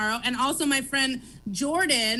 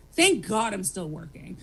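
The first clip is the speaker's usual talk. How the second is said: "Thank God I'm still working" said lower and slower, deadpan; dry sarcasm; 6 semitones lower, slower than usual. Real, not acted. Overworked mom mocking her own luck, dry and slow. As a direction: let the irony sink in slowly.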